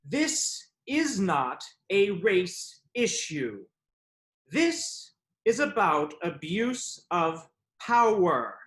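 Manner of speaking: very slow, deliberate pronouncement; emphatic written reply. Acted. Man reads his reply to her deletion, slow and emphatic. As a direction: spell it out phrase by phrase. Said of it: "so I responded".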